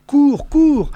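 high urgent shout; excited shout. A narrator's reading. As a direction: cheer the mouse on. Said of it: "m'entendis-je crier".

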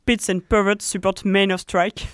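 English group name said in an English accent. Real, not acted. Co-host names the English activist group, in an English accent. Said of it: "J'adore entendre ton accent anglais".

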